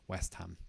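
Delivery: West Ham said west-am, joined. Shown as a demonstration. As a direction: run West into am. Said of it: "They kind of come together".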